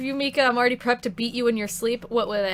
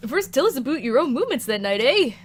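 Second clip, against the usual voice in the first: put-on Canadian accent; 3 semitones higher, 4 dB louder than usual. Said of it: "I can't do a Canadian accent".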